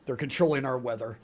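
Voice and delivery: hushed, secretive murmur; conspiratorial whisper. Acted.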